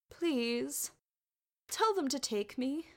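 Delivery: small, high-pitched plea; pleading boy. Acted. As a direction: beg like a child desperate to come. Boy begs to join quest.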